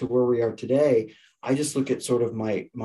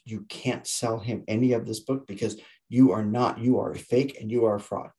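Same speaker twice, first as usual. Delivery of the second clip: lightly voiced accusing inner critic; a hint of a cold inner voice putting him down; 2 semitones lower than usual. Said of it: "my imposter voice popped right up in my head and said".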